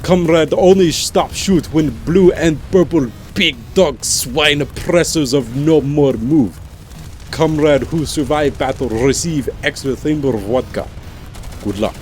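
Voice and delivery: thick, hammed-up fake Russian accent; terrible Russian accent. Gamer reading a fan's loadout description, bad Russian accent. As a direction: read it like a bad Russian soldier. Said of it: "read with my terrible, thick, awfully Russian accent".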